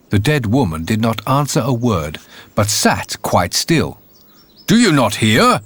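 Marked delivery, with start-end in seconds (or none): 4.7-5.6 raised voice, calling to someone deaf; loud cry. Acted. Landlord shouting at the dead grandmother, raised voice. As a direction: shout it to be heard. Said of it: "cried the landlord as loud as he could".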